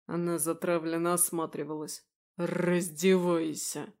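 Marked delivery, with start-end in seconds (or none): 2.4-3.9 growled order. Acted. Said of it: "прорычал".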